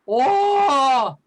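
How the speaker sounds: a hammed-up startled "oh"; mock surprise. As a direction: gasp it out in fake shock. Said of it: "pretend to be surprised".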